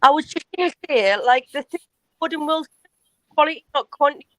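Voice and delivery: glitchy robotic connection sound; choppy, robot-like call audio. Real, not acted. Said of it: "you sound like a robot".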